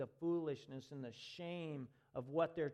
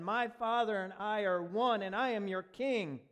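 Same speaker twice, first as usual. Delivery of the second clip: loud, high proclamation as Jesus; ringing voice of Jesus proclaiming; voicing Jesus; 6 semitones higher, 8 dB louder than usual. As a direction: declare it as the King himself. Voicing Jesus's claim in sermon.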